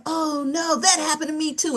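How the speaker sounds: lightly acted me-too interruption; eager one-upping listener. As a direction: jump in to make it about you. Acts out friend hijacking the story.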